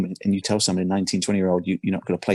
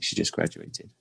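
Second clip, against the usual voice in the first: choked up; 6 dB quieter than usual. Real, not acted. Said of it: "Man, I'm getting emotional".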